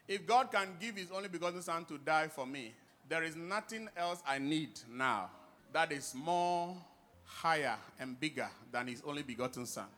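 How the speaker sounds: ordinary talk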